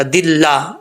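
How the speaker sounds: दिल्ला with a light, thin laa; thin lam. Shown as a demonstration. Teacher shows the rule, light pronunciation. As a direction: keep the ला of दिल्ला flat and light. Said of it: "ये बारीक पढ़ा जाएगा".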